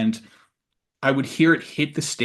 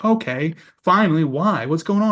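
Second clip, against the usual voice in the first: rising worry, pitched up; a tense higher plea for answers; anxious, higher voice; 5 semitones higher, 4 dB louder than usual. Retold or imitated. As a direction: ask it with growing alarm. Anxious actor asking why.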